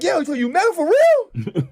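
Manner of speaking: high, slow mock disbelief; imitating Will. Will teasing the bragging fan, high slow mock disbelief. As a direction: stretch it out high, teasing doubt.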